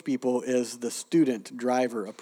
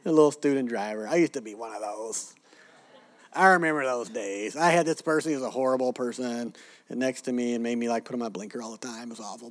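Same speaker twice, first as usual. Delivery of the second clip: patronizing coo. Retold or imitated. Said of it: "but Americans go".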